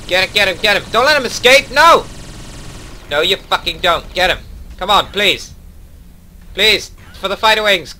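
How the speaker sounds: frantic high shouting. Real, not acted. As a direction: scream at the fleeing enemy. Frantic chase, enemy escaping.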